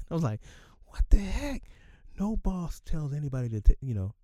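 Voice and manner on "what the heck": breathless whispered what the heck; whispered disbelief. Retold or imitated. Worker reacting under his breath to a strange boss, whispered. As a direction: whisper it in stunned confusion. Baffled by boss's odd scolding.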